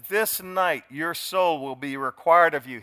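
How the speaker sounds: slow, grave divine warning; solemn voice of Christ. Acted. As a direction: pronounce judgment slowly and gravely. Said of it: "Christ says some other things".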